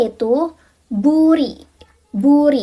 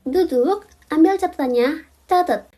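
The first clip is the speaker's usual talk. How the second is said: playful teacher order; 3 semitones higher than usual. Acted. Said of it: "classroom command to viewers".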